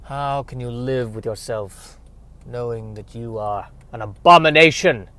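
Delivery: lightly voiced stern questioner; grave interviewer. Interviewer confronts the monster.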